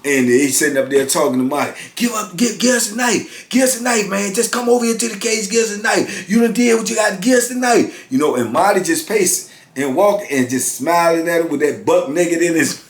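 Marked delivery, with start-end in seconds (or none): 2.0-8.1 guards demanding. Retold or imitated.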